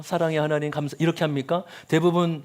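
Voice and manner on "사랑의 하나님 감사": smiling prayer. Retold or imitated. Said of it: "이렇게 웃으면서".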